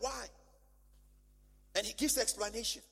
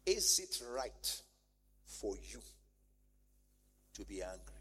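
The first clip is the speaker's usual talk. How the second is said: gentle divine question; 10 semitones lower, 6 dB quieter than usual. Acted. God asks Jonah gently.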